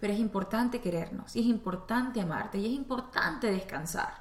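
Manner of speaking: a touch of a gentle, caring friend, slowing at the end; lightly voiced kind friend, easing off; sweet friend. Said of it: "la voz de mi mejor amiga, que yo quería mucho".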